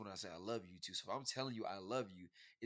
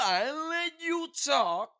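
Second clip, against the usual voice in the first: high, loud and slowed, half laughing; loud playful outburst; 13 dB louder, slower than usual. Real, not acted. Boyfriend cutting off his girlfriend, loud and teasing. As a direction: blurt it out over her, teasing. Playful interruption in couple debate.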